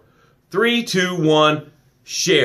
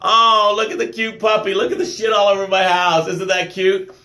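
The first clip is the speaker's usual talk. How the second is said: doting puppy talk; 4 semitones higher than usual. Retold or imitated. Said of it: "You're still like".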